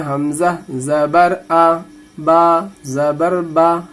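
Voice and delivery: gentle, measured spelling-out of each letter; soft, unhurried reading. Shown as a demonstration. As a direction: give each short vowel its place, without rushing. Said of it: "हरकत इस तरह से नरम आवाज़ के साथ". (नरम आवाज़ में, आराम से पढ़ना)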